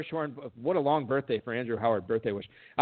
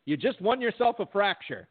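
mock game-show host; 5 semitones higher than usual. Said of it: "She's like".

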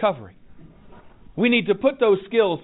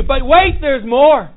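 loud pitchman's "but wait"; infomercial; 4 semitones higher, 6 dB louder, slower than usual. Pretend. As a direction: sell it like a TV ad. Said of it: "I sound like an infomercial".

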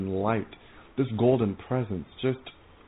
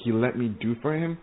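can't believe God is happy with you; telling how she reacted to God's joy, stunned; amazed disbelief; 2 semitones higher than usual. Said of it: "I was like".

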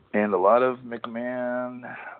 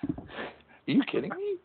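Hank Hill impression; 14 semitones higher than usual. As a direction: bark it out like an exasperated Texan dad. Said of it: "I'm Hank Hill".

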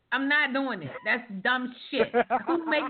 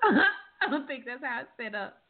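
said through a laugh. Real, not acted. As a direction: laugh while repeating it.

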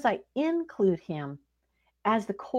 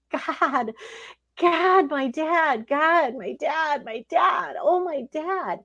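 higher, pleading cry of God, my dad; retold crying prayer; 6 semitones higher, much slower than usual. Daughter retelling her prayer for her dying dad, tearful. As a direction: plead slowly, reliving the fear.

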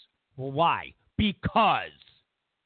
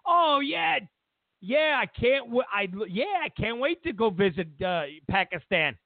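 mock eager Trump; 3 semitones higher than usual. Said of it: "Trump was like".

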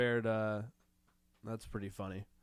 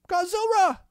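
monster roar; 5 dB louder than usual. Pretend. Roaring Godzilla name.

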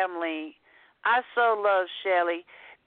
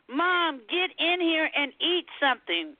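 understated acted yelling; mock yell; 4 semitones higher than usual. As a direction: call Mom in as a bossy cat, without real volume.

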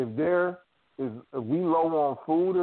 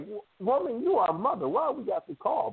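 much higher mock kid complaining; protesting kid; 10 semitones higher than usual. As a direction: squeak out a child's protest. Kids protesting to mother.

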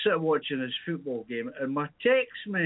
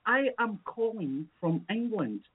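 mock English accent; 5 semitones higher, slower than usual. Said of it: "even your English accent is that fucking poor".

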